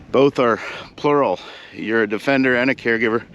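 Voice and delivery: breathless after the climb; winded, catching breath between words. Real, not acted. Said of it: "Anyway, I'm out of breath".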